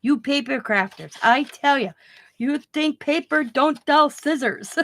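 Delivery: lightly voiced scolding tradesman; old German repairman. Scissors man to paper crafters, mock scolding. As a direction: imitate him lecturing, drawing out the complaint. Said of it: "he's an old German guy".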